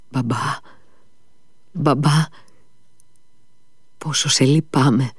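put-on bitter, sorrowful child's voice; a dying boy pitying his father, bitterly. A narrator's reading. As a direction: grieve for your father as you say it. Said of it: "πρόφερε πικραμένα".

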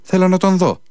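high, loud insistent demand; shouting. A narrator's reading. The monk shouts at the officers to see the body. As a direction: cry out that he must see him, pitched high. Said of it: "φωνάζει ο Παντελεήμων".

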